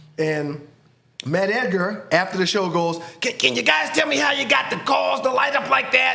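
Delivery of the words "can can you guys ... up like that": odd, high, creaky voice. Retelling what Matt Edgar asked after the show: imitating Matt Edgar. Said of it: "That's how he talks".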